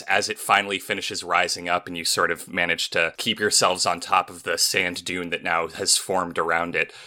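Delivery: ordinary talk, nothing marked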